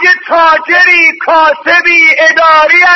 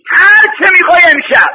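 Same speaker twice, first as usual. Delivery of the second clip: crying; faster than usual. Real, not acted. Weeping preacher plea.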